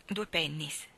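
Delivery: quiet whispered aside; the pedlar's price, whispered low. Retold or imitated. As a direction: drop to a hushed whisper.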